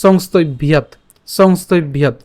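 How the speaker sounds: "সংস্তব ভিয়াত" run together, ending on a clean t; joined pronunciation. Shown as a demonstration. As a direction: join the parts into "সংস্তব ভিয়াত" as one word. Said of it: "তাহলে আমরা যদি একসাথে উচ্চারণ করি".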